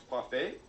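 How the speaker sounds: "Parfait" said the French way, par-FAY. Shown as a demonstration. Showing the viewers the French word "Parfait". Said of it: "as they say in France".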